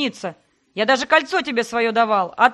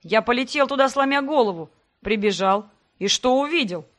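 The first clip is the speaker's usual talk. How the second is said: raised voice. Acted. Sebastian raises his voice defending himself to her. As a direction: raise your voice back at her. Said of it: "Тоже повысил голос Себастьян".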